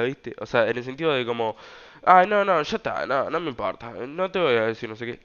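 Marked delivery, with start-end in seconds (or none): 2.0-5.2 mock a dismissive "whatever" attitude; dismissive, snippy tone. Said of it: "Como en un tono así".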